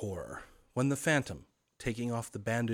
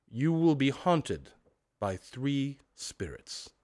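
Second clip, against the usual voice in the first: unearthly voice; 4 semitones higher, slower than usual. Acted. Ghost pronounces.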